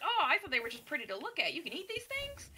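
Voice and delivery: quick, rising to a high squeak of disbelief; fast and astonished, the last question shooting up high; amazed surprise. Retold or imitated. Nobleman amazed that grapefruit can be eaten, high squeaky astonishment. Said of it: "And he's all like".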